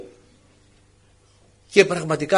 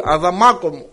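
pleading "Αδαμάκο μου" over and over, a little louder each time; a wife's mock coaxing that grows more insistent; nagging, building; 3 dB louder than usual. Wife nagging her husband Adam, mock pleading that builds. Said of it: "αρχίζουν οι γυναίκες τη μουρμούρα".

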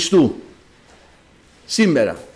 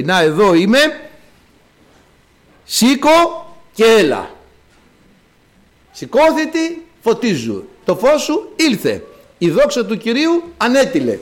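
voice of the Lord; 5 semitones higher than usual. Acted. Voice of the Lord arrives.

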